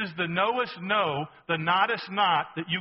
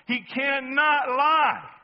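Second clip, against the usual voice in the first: very slow, higher, louder, each word hammered; slow weighty emphasis; 7 semitones higher, 6 dB louder, much slower than usual. Real, not acted. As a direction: nail it down word by word. Preacher pressing the final point.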